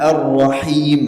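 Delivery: slow "Ar-Rahim" with a distinct throaty h; clear ha. Shown as a demonstration. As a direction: draw out "Ar-Rahim", sounding the ha clearly. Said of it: "seperti ini".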